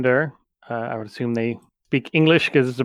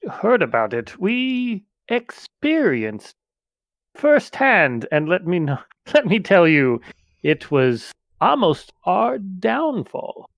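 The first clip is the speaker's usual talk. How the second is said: Tesla voice; 3 semitones higher than usual. Acted. Tesla warns of attacking books.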